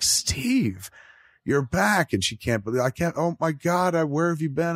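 lightly acted startled old woman; imitating shocked joy. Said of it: "she fucking freaks and she's like".

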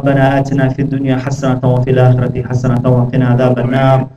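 fast, murmured Arabic supplication; closing dua rushed in one breath; rapid dua recitation. Acted. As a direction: rattle off the prayer, low and quick.

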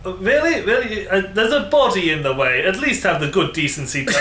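wobbly put-on French accent; mock foreign accent. Ambassador affronted by a body in the way, mock French accent. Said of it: "I do not know what this accent is".

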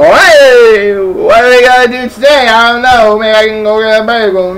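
playful Jewish-accent impression; mock Jewish accent. Friend imitating how Hebrew people sound, mock Jewish accent. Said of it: "you know how, um, Hebrew people sound".

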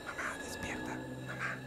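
urgent frightened whisper to mom. Retold or imitated. Daughter whispering to wake her mother in fear. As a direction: hiss it so nobody outside hears.

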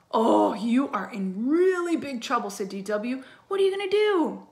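sing-song scolding, climbing high; gloating kid sister. A narrator's reading. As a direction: rub it in like a little sister. Sister rubbing it in.

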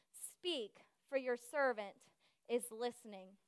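soft, low, with pauses; reverent answer. Retold or imitated. Samuel answering the Lord as Eli told him, reverent.

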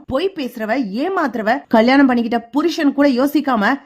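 a son's hurt outburst at his father, lightly played; tearful angry shout. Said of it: "அழுகையோட கோவத்தோட கத்துறாரு". (லேசான அழுகையுடன் கோபமான கத்தல்)

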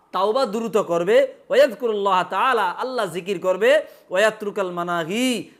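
normal talking voice

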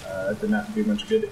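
muttered unvoiced aside; under the breath. Real, not acted. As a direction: mutter it to yourself. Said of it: "Now that did not do much good".

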